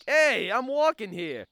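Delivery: mild, slow mock of a gnome; imitating gnome. Man retelling what the gnomes said, mildly mocking. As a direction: lightly imitate an indignant gnome, drawn out. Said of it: "they started being like".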